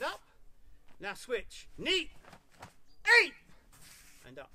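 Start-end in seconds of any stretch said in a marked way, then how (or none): 1.8-2.1 high, loud count call; drill count. Real, not acted. 3.2-3.3 short, explosive kiai; martial shout. Real, not acted. Kiai shout in karate drill.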